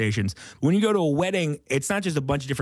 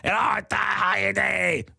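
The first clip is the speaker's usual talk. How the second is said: different voice; 7 semitones higher than usual. Acted. Wedding heckler barging in on the host, high put-on voice. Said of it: "it's a different voice".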